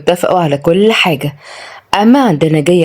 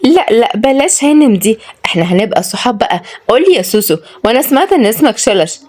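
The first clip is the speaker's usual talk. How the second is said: high, coy woman's voice; lightly coquettish, pushing for familiarity; flirty lady; 4 semitones higher than usual. Acted. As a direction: flirt gently in a raised pitch. Flirty lady proposes friendship and nicknames.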